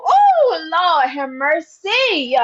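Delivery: spirited exclamation. Real, not acted. Overcome by the spirit.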